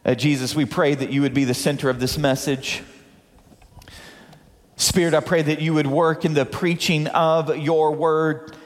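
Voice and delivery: earnest prayer starting low, gradually rising, settling low at the close. Real, not acted. Preacher prays for those in the room and online, earnestly. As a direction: lead the room in heartfelt prayer.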